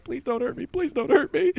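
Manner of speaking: high, mock-terrified pleading; high-pitched comic begging not to be hurt. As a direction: beg in a hammed-up squeak. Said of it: "I'm like".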